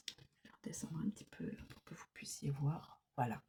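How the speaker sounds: fast hushed whisper; quick whisper. Real, not acted. Reader lowers the camera for viewers, fast whisper. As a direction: rush it out under the breath.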